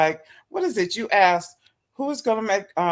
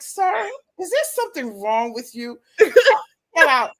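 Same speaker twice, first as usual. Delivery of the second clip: laughing exasperation; 9 semitones higher, 4 dB louder, slower than usual. Retold or imitated. Her exasperated retort to him.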